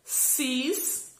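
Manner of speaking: CIS set apart and drawn out; lengthened, separate CIS; isolated syllable. Shown as a demonstration. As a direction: present Cis as a piece on its own. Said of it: "com três letras".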